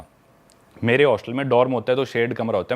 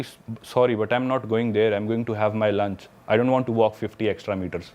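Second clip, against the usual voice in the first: mocking quote; 4 semitones lower, much slower than usual. Mocking the girl's dismissive reply.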